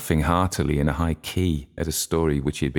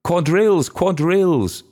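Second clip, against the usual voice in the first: very high, loud, excited call; excited cry; 13 semitones higher, 6 dB louder than usual. A narrator's reading. Red-faced young woman calling everyone to dance, excited cry. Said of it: "excitedly clapping her hands and crying".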